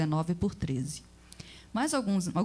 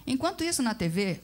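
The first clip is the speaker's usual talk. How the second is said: plain reading voice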